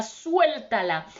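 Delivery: "Suéltala" slow and commanding; retold powerful voice saying "Suéltala"; voice of authority. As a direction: command it like a divine order, slowly. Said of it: "dijo con autoridad".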